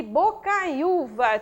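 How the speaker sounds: "bocaiúva" drawn out as bo - cai - ú - va; syllable by syllable. Shown as a demonstration. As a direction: slowly separate bo, cai, ú, va. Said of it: "tem o ditongo anterior ai".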